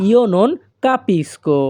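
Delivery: very slow, every syllable laid out clearly; slow teaching demo. Shown as a demonstration. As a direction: spell the phrase out slowly for learners. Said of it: "অথবা আপনারা বলতে পারেন". (ধীরে ধীরে স্পষ্ট করে বলা)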